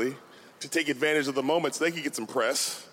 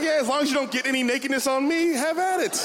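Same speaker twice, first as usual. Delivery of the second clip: easygoing Berkeley; 8 semitones higher than usual. Retold or imitated. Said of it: "Berkeley's like".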